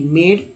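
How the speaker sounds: मेड with long "ay", like "made"; A read as "ay". Shown as a demonstration. Teacher misreads MAD for students, long "ay" vowel. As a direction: say मेड with the letter-name A. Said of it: "सभी जगह ए का उच्चारण करेंगे".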